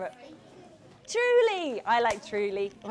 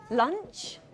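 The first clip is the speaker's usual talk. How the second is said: hopeful; 5 semitones higher than usual. A narrator's reading. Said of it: "he says hopefully".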